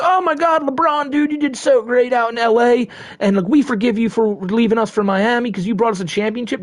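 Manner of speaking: high, gushing mock fan voice. Imagined Akron fans praising LeBron, high gushing voice. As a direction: gush like an adoring hometown fan. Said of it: "everyone's not gonna be like".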